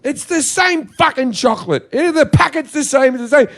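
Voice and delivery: fed-up rising rant; exasperated rant. Real, not acted. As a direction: hammer home that it's identical. Ranting about identical chocolate.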